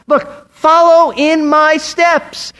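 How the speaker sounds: high, drawn-out rallying call; shouting to followers. Acted. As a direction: call out slowly to those behind you, pitched high. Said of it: "as if he's shouting to his followers".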